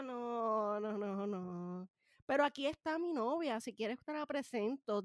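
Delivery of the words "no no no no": slow, soft string of refusals; inner thought. Retold or imitated. Her inner thought at relatives' question, soft slow dismay. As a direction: let it sink softer and slower, to yourself. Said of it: "mi pensamiento por dentro".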